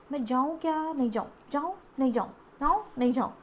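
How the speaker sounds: rising questions, then backing off; acted dithering. Reader voices client hesitating at the door, acted dithering. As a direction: waver back and forth, imitating indecision.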